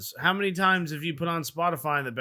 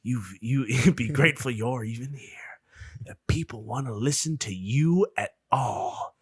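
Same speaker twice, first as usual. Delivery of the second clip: rising preacher cadence. Retold or imitated. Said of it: "a preacher voice".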